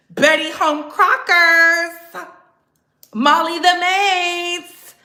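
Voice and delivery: slow, drawn-out mocking names; mocking name-calling. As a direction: stretch each nickname out in mockery. Mock orders to go be housewives.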